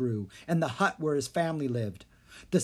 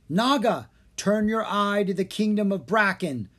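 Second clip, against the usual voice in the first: entranced command; 7 semitones higher, 5 dB louder than usual. A narrator's reading. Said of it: "the twins repeated".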